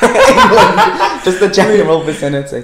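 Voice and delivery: loud, high, laughing echo; mocking echo. Teasing partner's vague guess, laughing mockery. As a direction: laugh it back loudly and high.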